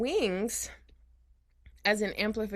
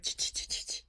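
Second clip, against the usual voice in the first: maraca rattle; 8 dB quieter than usual. Shown as a demonstration. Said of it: "like the maracas".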